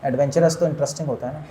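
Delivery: ordinary talk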